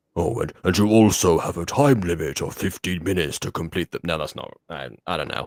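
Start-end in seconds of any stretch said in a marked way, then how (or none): 0.1-3.9 tentative horror-villain voice that falters. Trying out a Jigsaw voice to announce a time limit: Jigsaw voice. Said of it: "What did Jigsaw sound like again?".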